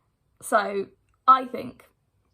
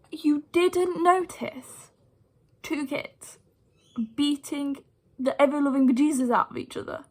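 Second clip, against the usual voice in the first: 1 incredulous; 3 semitones higher than usual. Retold or imitated. Incredulous at the teaching assistant.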